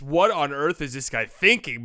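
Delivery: slow, puzzled mock question; doubtful disbelief. Fan doubting a wild shot in midair, puzzled disbelief. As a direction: sound unsure if the shot is smart. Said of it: "But in midair, it's".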